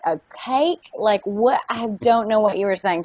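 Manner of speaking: mildly baffled mimicry; lightly acted puzzlement; retold confusion. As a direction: imitate someone puzzled by a word. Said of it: "people just could not even understand".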